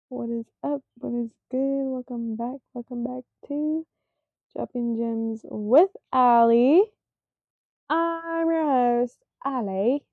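upbeat host intro; podcast intro voice. Shown as a demonstration. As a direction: welcome listeners like a show host. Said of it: "That was the intro".

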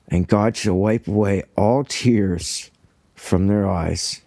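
slow, emotion-thick reading of the verse; a touch of real choking up on the words; choked up. Real, not acted. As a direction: read it slowly, as if fighting back tears. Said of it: "I can barely read that without getting choked up".

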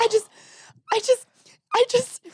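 very high, halting mock sobs; imitated crying. Retelling wife unable to get words out, mock crying. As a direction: stall tearfully on each try. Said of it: "she starts crying".

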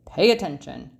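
low, loud teacher's snap; stern music teacher scolding; Maestro snaps. Acted. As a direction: bark it at the student. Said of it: "snaps Maestro".

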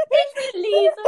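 high, loud mocking squeal; squeaky mock of her line; mocking imitation. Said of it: "du kannst nicht sagen".

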